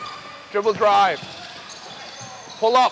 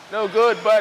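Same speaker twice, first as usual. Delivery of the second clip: excited shout; 2 semitones higher, 3 dB louder than usual. Real, not acted. Live call of missed shot.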